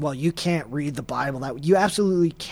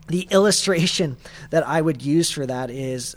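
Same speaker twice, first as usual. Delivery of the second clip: more measured, deliberate pacing; slowed down a little. Real, not acted. Preacher reining himself in to explain an illustration, slowed down a little. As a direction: ease off and space the words out. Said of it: "I'll slow down a little bit".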